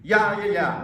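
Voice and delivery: loud, high, eager yeahs; enthusiastic yeah. Shown as a demonstration. Coach leading the audience in an enthusiastic yeah. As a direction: pump it up with enthusiasm. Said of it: "an enthusiastic".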